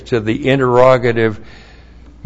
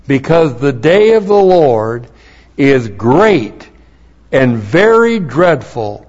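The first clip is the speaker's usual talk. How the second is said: preaching scripture reading. Real, not acted. Pastor reading his corrected translation aloud, preaching. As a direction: proclaim the verse to the congregation.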